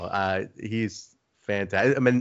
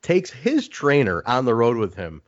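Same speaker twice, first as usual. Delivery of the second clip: pitched way up, needling a friend; hammed-up teasing, higher; ribbing high voice; 6 semitones higher, slower than usual. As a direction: rib him in a high mock voice. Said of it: "I go".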